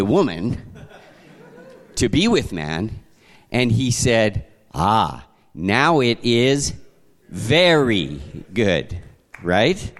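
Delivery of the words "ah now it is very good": slow pleased God. Acted. God voiced praising woman.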